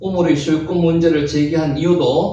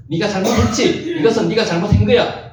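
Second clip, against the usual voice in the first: lightly acted scolding; a touch of coercive rebuke; mild forceful accusation; 3 semitones higher than usual. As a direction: press the blame, mock-accusing. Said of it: "요렇게 막 강제적으로".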